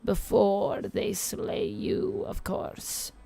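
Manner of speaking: lightly voiced old Eastern European witch reading tarot; a hint of a crackly Eastern European crone; tarot reading in a mild Eastern European witch accent. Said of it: "I'm doing an old Eastern European witch voice".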